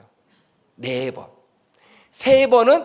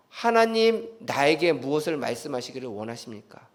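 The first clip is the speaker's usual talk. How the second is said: prayerful murmur; 6 semitones lower, 6 dB quieter than usual. Retold or imitated. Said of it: "라고 묵상하면서".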